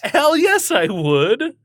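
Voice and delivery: high, loud eager yell; excited. Real, not acted. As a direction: shout it out gleefully. Eager answer about free resort.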